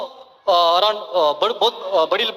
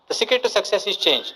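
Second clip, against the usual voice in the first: slow motivational slogan; much slower than usual. Acted.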